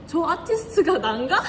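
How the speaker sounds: ordinary delivery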